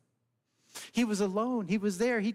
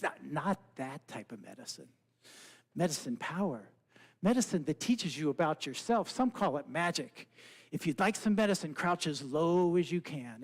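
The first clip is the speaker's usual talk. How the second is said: frog voice; 5 semitones lower than usual. Acted. Frog explains medicine.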